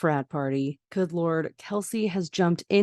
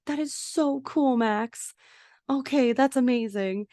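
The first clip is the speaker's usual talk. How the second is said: delighted praise; 7 semitones higher than usual. Retold or imitated. Parents to Max after the haunted house, delighted. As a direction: praise a child, pitched well up.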